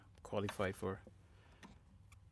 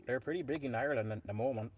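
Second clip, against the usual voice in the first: bad Irish accent; 3 dB quieter, faster than usual. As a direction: attempt an Irish accent, badly and fast. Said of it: "that was my horrible Irish a-, Irish accent".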